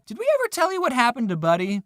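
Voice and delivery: a light, quick imitation of his mom; mom's voice. Mom casually asking her son about Buddy, lightly voiced. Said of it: "she turned to me and said".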